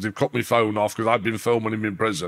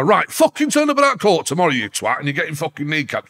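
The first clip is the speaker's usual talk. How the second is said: mock threat; 5 semitones higher than usual. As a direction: bark a hammed-up gangster threat. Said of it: "He could have just rang me up and go".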